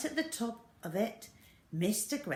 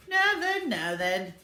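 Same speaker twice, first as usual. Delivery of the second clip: calm reassurance; 8 semitones higher, 10 dB louder than usual. Acted. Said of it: "said Mister Gregg".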